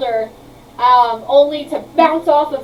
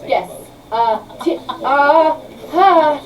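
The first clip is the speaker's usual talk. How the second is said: flustered inventor; 5 dB louder than usual. Acted. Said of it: "he literally goes".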